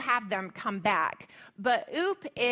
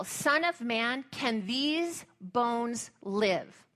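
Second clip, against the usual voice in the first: slow solemn question; 3 dB quieter, much slower than usual. Retold or imitated. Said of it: "God says to Ezekiel".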